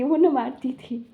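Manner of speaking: words breaking into a laugh; trying not to laugh while saying it. Real, not acted. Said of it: "मुझे हंसी आ रही है".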